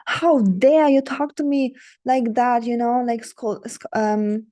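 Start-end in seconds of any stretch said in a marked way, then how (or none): 0.1-2.6 sharp, indignant snap, slowed and loud; snapping. Shown as a demonstration. Coach showing the wrong way, snapping at a date. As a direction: snap at him in mock outrage. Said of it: "Snapping like this".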